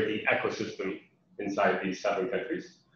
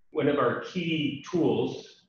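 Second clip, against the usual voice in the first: slow, raised stress on "one of our key tools"; emphasized phrase; 5 semitones higher, slower than usual. Real, not acted. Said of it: "and I'm emphasizing this".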